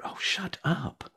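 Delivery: high, exasperated hissed inner shout; nervous young actor snapping inside his head, pitched high; irritated inner voice. Retold or imitated. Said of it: "and I thought".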